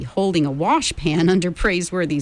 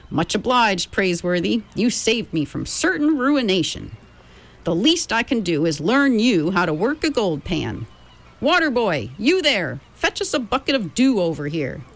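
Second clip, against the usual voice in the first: put-on old miner voice; 4 semitones higher than usual. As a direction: play a chatty gold-rush miner.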